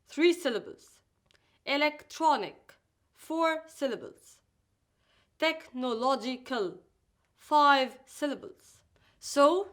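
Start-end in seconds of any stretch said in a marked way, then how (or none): 1.6-2.7 Electronic in four distinct syllables; Electronic, each of its four syllables clear. Shown as a demonstration. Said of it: "Say each word with the correct number of syllables". 5.4-6.8 Technological broken into careful syllables. Shown as a demonstration. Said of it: "Say each word with the correct number of syllables".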